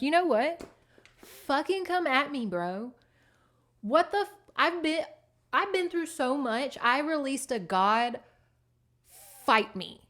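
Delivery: a cat daring a big dog to come at him; tough challenge. Retold or imitated. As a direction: square up and taunt the dog.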